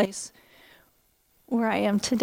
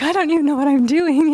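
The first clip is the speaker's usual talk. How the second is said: tearful wail; 4 semitones higher, 5 dB louder than usual. Retold or imitated. Overwhelmed new teacher, bawling.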